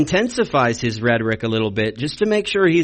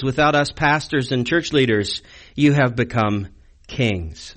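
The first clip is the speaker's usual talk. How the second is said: sarcastic. Retold or imitated. Preacher reading Paul's sarcastic words to the Corinth church, sarcastic. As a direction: lay the sarcasm on in measured, pointed phrases. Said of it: "you see that that's sarcasm".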